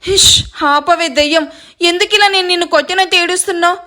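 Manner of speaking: flustered hushing, mildly exasperated; awkward, irritated giving-in; embarrassed. Acted. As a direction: shush them because everyone is watching. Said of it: "ఇబ్బందిగా అంటాడు".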